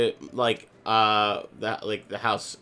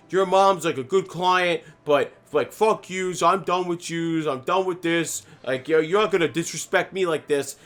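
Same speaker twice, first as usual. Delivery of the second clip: imitating an angry lawn guy, higher voice; retold fed-up tirade, pitched up; livid rant; 7 semitones higher, 4 dB louder than usual. Lawn guy rants at the client's son, livid rant.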